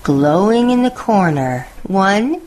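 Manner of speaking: put-on lively read-aloud for children, savouring each list; storybook narration. A narrator's reading. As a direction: tell it like a bedtime picture book.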